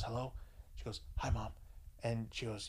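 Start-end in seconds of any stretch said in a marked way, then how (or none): 0.0-0.3 mock hushed hello; hushed phone answer. Girlfriend answering her mom beside a supposedly sleeping date, hushed. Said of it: "Why are you whispering?". 1.2-1.5 imitating a hushed phone voice; hushed greeting. Girlfriend greeting her mom on the phone, hushed. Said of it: "Why are you whispering?".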